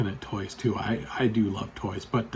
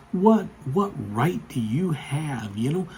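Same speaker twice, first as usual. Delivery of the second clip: indignant mother; 3 semitones higher than usual. Retold or imitated. Offended mother challenging a stranger in the aisle, mock indignant.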